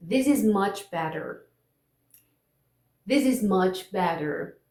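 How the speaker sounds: slow model sentence, "better" with tapped T; slowly for repetition, flap the T in "better"; American "better" with a quick tap for T; flap T demo. Shown as a demonstration. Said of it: "Eu vou falar a frase".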